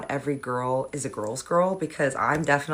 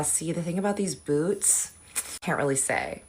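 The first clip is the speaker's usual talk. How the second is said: secretive; 7 dB quieter than usual. Retold or imitated. Imitating the secretive girl.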